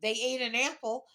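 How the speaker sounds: slowing on war, piling up the horrors; retold outrage. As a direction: build it up like a preacher's list of woes. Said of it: "he goes".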